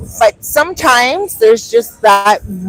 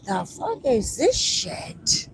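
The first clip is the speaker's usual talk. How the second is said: hushed quote; 10 dB quieter, slower than usual. Retold or imitated. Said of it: "I was like".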